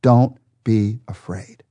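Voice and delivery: slow, gentle "Don't be afraid." with a drawn-out "afraid"; reassuring. Shown as a demonstration. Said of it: "and God says to you right now".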